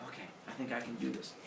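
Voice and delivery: low, quiet, quick reply; hesitant. Retold or imitated. Epimetheus accepting his task from Zeus, hesitant. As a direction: mumble it low and small.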